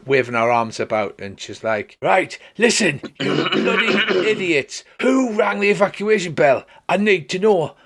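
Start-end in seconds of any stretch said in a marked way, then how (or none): 2.0-7.8 high-pitched mock bellow at a crowd; hammed-up furious telling-off; angry shouting. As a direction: scold them all in a raised voice. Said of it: "starts shouting at the top of her voice".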